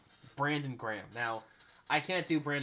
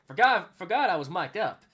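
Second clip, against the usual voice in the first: loud, raised mimicked outburst; mock exclamation; 6 semitones higher, 11 dB louder than usual. Player remembering his microphone is on, loud high mock blurt. Imitating player caught on mic.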